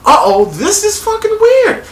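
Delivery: loud, stunned whoa with a laugh; loud gasping shock, climbing high at uh-oh; shocked reaction. Retold or imitated. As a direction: react as the twist hits you. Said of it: "And I'm like".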